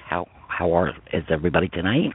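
words slurred by a frozen mouth; stumbling with a numb, frozen mouth. Real, not acted. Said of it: "My, uh, mouth is frozen".

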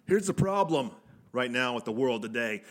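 loud, high wrestling promo. Acted. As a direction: shout it like a heel on the mic. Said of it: "promo, uh, cut one".

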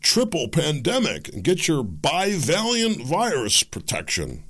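slow, ominous ad read; mock news promo. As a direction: lay it on like a scary health announcement. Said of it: "you'll hear things like this".

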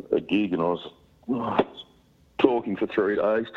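raspy sick voice; croaky from the flu; hoarse voice. Real, not acted. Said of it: "a funny sounding voice at the moment".

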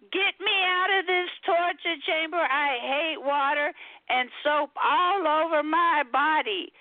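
high-pitched indignant cat plea; hammed-up complaint without extra volume; mock protest. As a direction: start high in comic outrage, then ease down. Cat protesting during a bath.

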